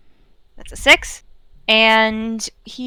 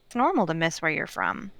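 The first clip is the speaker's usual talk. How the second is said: gentle consoling; 5 dB quieter than usual. Acted. Character gently consoles a homesick friend.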